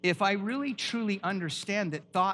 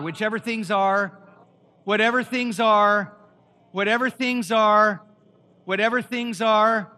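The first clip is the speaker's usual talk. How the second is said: whatever things are repeated much louder each time; 3 semitones higher, 6 dB louder than usual. Shown as a demonstration. Pastor getting the church to read louder, a loud call. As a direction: push the volume up for the crowd.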